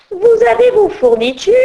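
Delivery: high, loud demanding call; teacher demanding school supplies, high and loud; teacher's shout. Acted. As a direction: bark the question at the class. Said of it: "Crie la maîtresse".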